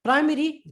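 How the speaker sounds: teacher modelling Primary; demonstrated letter sound. Shown as a demonstration. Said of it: "point of pronunciation".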